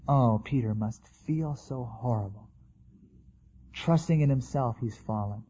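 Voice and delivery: soft, low, slow sympathy; compassionate. Retold or imitated. Jesus looking at fallen Peter, softly compassionate. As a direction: voice tender, forgiving concern quietly. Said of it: "and with a compassion".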